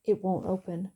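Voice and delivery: a touch of panic, timbre shifted; panicked. A narrator's reading. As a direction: say it with rising alarm, understated. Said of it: "Panic was in his eyes when he announced".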